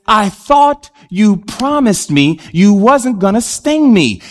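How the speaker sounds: slow, drawn-out mock accusation; acted reproach. Dying frog to the scorpion who broke his promise, acted reproach. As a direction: stretch it out like a betrayed victim.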